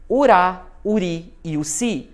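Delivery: RÁ, RI and CI punched in "Urá, uri e uci"; teacher isolating the strong syllables in "Urá, uri e uci"; stressed syllables picked out. Shown as a demonstration. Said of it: "são as mais fortes".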